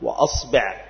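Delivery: أصبع with fatha on the hamza and kasra on the ba, aṣbiʿ; vowel demo. Shown as a demonstration. Teacher listing the variant for students, careful aṣbiʿ. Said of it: "فتقول بفتح الهمزة".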